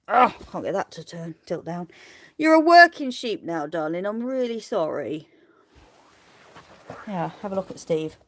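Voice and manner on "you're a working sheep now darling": high and louder cooing; pet talk. Real, not acted. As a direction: praise the sheep sweetly. Talking to the sheep.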